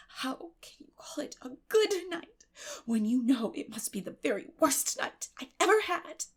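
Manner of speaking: put-on wounded girl pleading from under the covers; reproachful. Anne reproaching Marilla from bed, hushed and hurt. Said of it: "she said reproachfully".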